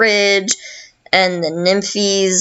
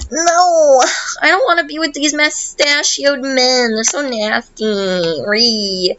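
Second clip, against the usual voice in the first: mock wailing protest; 6 semitones higher than usual. Loveby resists becoming the pure heart, mock-wailing high protest. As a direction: wail it like a hammed-up tantrum, then wind down.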